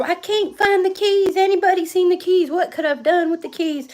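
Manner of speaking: hammed-up panic over lost keys; mock uproar. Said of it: "he went into this uproar".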